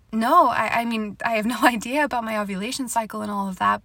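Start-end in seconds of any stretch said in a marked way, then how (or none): none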